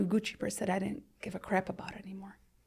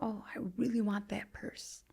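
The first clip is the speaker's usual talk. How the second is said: younger self; 2 semitones higher, 6 dB quieter than usual. Retold or imitated. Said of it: "thirty-year-old me was like".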